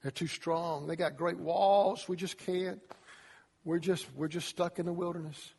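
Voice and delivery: soft mopey whine; whiny defeat. Retold or imitated. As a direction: complain like you're stuck. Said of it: "And they said".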